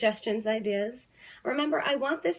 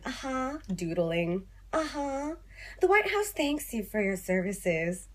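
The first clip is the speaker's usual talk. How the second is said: imagined phone operator. Pretend. Operator half-listening to a caller, imagined polite uh-huh. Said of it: "the other line, just, like, nodding and smiling".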